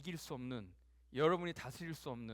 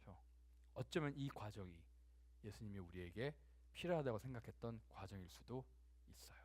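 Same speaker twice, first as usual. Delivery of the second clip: ordinary talk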